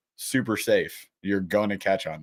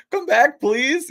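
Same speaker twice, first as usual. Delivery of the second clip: high desperate plea; pleading; 6 dB louder, much slower than usual. Retold or imitated. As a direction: beg the lure to come back. Pleading to snagged lure.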